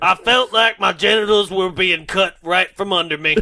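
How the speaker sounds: comic Texan voice; mock Texas accent. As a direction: play an aggrieved Texan, put-on. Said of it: "he has the Tex accent now".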